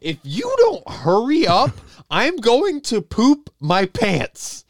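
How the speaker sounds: high, strained urgent plea, slowing at the end; desperate exasperation. Acted. Actor warns the slow director of imminent accident, desperate exasperation. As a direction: punch out each word in comic desperation.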